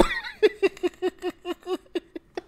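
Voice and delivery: high, soft, drawn-out laugh; helpless laughing fit. Real, not acted. Picturing the old man's choke-out, helpless laughter. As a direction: keep laughing until the breath runs out. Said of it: "I'm laughing so hard".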